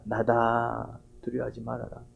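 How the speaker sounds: Jesus whispering to frightened disciples at night, softly hushed. Acted. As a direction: murmur it like a voice drifting over the water. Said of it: "그런 속삭임이 들립니다".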